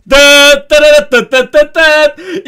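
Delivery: yavaş, yüksek tüfek taklidi; dıt dıt diye makineli tüfek taklidi; ağızla silah sesi. Retold or imitated. Asker keçi silah sesi taklidi. (ağızdan makineli tüfek sesi)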